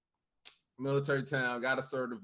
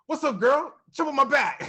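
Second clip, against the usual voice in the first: high, loud playful wrestler voice; R-Truth impression; 11 semitones higher, 8 dB louder than usual. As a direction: ham it up like a goofy wrestler. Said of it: "He's like".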